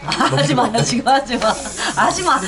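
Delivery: laughing protest; giggling no don't. Real, not acted. Laughing at hot food moment. (웃으며 하지 마)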